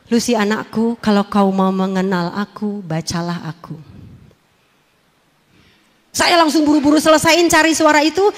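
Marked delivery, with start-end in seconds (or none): 0.1-3.8 calling voice. Retold or imitated. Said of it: "Suara itu bilang apa?".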